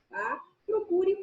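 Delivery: ordinary delivery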